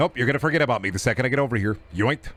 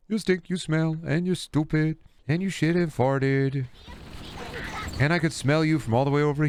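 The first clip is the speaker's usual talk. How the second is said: put-on childish taunt; 3 semitones higher than usual.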